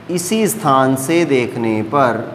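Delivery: very slow, deliberate phrasing; slow, careful explaining. Real, not acted. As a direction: stretch the words out so students follow. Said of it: "धीरे धीरे बोल रहा हूँ". (बहुत धीरे, ठहर-ठहर कर)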